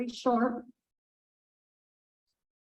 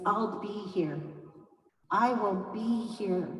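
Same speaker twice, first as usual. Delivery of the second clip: soft, quiet reassurance; reassuring; 6 dB quieter than usual. Acted. Raven reassuring Hawk he will wait, soft. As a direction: promise gently to stay. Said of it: "But Raven said".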